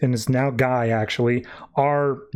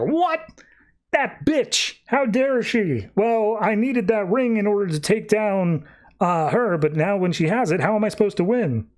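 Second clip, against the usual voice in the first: much higher, squawking outrage at the theft; outraged shriek; 6 semitones higher than usual. Retold or imitated. Larfleeze to Ice, a much higher outraged shriek. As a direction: shriek it like a robbed miser, then sink into whining. Greedy Larfleeze hears ring stolen.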